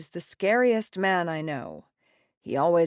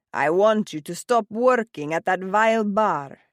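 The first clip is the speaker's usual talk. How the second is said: angry father; 3 semitones higher, 6 dB louder than usual. A narrator's reading. Father orders.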